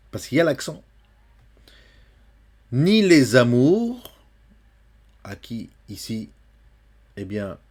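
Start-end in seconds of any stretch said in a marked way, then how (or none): 2.7-4.1 "Ni les amours" lent, liaison /lez amuʁ/. Shown as a demonstration. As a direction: lier le S de "les". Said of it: "une liaison". (liaison lente et appuyée)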